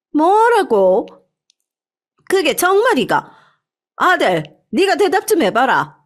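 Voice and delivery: put-on high, shocked old woman's cry; a mother-in-law stunned by her son's secret. A narrator's reading. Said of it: "화를 냈습니다". (아들의 비밀에 놀란 시어머니, 높은 목소리)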